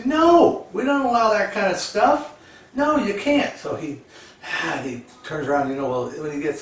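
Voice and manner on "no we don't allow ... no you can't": higher, firm refusal; stern ticket lady. Retold or imitated. Ticket lady refusing the man with the duck, sharp and firm. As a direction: shut him down firmly.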